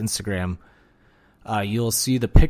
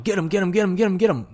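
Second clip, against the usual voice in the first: Pontius; 10 semitones higher, faster than usual. Retold or imitated. Retelling crew yelling at the shark attack, high mock yell. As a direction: imitate rapid, high-pitched urgent calls without full volume. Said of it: "you hear Pontius yelling".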